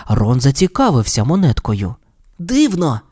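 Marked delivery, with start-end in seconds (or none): 2.4-3.0 surprised exclamation. Acted. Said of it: "вигукнув він".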